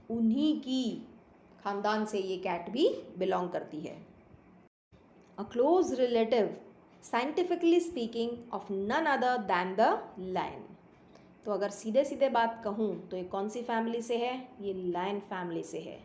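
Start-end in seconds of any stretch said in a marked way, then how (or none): 5.4-10.6 slow, deliberate storybook reading; story read-aloud. A narrator's reading. Boy boasting of the cat's ancestry, slow read-aloud. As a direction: read it out unhurriedly, spacing each phrase.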